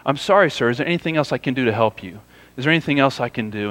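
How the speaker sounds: mild, politely helpful teller voice; retold pleasant customer-service manner; pleasant apology. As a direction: quote a patient teller offering help, quick and even. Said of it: "she just pleasantly kept saying".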